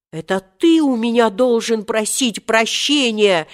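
hot-tempered retort. A narrator's reading. Seryozha turns the demand back on Omar Yusuf, heatedly. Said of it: "запальчиво возразил Серёжа".

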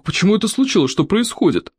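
a touch of baffled surprise; dumbfounded. A narrator's reading. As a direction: ask as if stunned. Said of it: "спросил обалдевший мракушник".

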